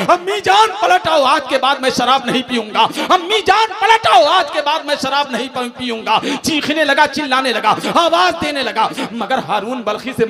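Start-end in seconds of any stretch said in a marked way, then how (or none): 0.1-6.2 wailing for mother. Retold or imitated. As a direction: call her back, grief-stricken and desperate. (मरी माँ को ऊँची आवाज़ में बिलखकर पुकारना)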